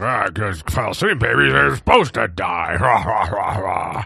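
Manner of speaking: put-on slow, drawn-out, dismissive snarl. Reacting to a clip of a politician, imitating Andrew Ogles snarling. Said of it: "the politician just snarls like".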